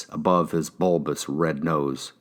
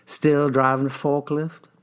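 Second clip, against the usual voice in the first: higher, probing detective; 7 semitones higher than usual. Acted. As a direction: question him like a cop. Detective voice again.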